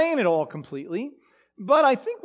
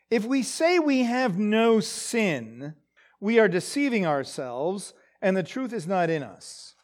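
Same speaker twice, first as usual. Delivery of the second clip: slowly; 3 dB quieter than usual. Shown as a demonstration.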